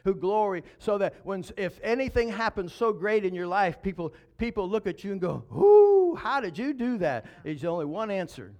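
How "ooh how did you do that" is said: high gasping ooh, amazed; hammed-up surprise; mock amazement. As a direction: act wowed by someone's success. People marvel at your success.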